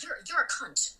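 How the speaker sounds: blunt American-accented insult; plain, aggressive American accent. Shown as a demonstration. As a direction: deliver it as a verbal slap in an American accent. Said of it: "more aggressive when you're saying it in an American accent".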